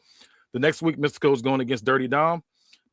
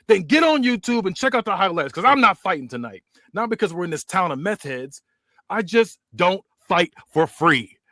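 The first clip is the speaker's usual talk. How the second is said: cocky heel promo; 3 semitones higher than usual. Acted. Connor mocking the champ on the mic, cocky high heel voice. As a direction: sneer it at the champ like a smug heel.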